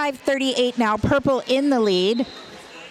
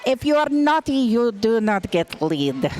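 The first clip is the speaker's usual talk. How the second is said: put-on terrible Russian accent. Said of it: "That was a terrible accent".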